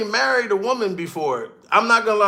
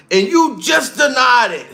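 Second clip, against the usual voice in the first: usual speaking voice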